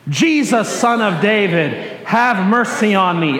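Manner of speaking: measured group call, each phrase separated; leading congregational cry. Shown as a demonstration. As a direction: lead everyone in a plea for mercy. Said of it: "Say that with me".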